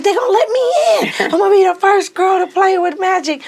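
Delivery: high, fast, laughing; teen telling friends her dream, high and laughing; laughing boast. Retold or imitated. Teen boasting about playing with Magic.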